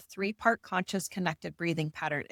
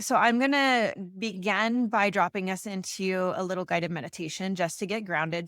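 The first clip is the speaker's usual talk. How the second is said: guided meditation. Acted. Breathwork guide leading listeners into a meditation. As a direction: ease them into the body, calmly.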